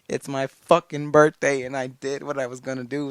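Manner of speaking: bursting with pride, all-out yelling; excited shout. Real, not acted. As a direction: shout it like you've just won. Hyped about his birthday goal.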